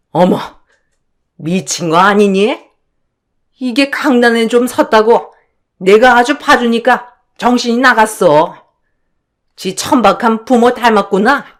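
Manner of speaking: lightly voiced outraged mother-in-law; scornful mother-in-law. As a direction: put the daughter-in-law down with contempt. Mother-in-law insults back. (며느리를 깔보는 시어머니 말투)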